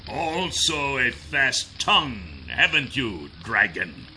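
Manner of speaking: quiet menacing villain. Acted. Kryzak, quieter.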